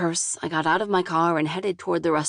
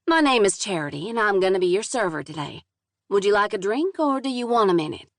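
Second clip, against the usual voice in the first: southern drawl. Acted. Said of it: "thick southern drawl".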